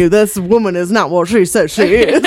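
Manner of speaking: lightly imitating a Southern detective insisting; Daniel Craig impression. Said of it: "you do a good impression".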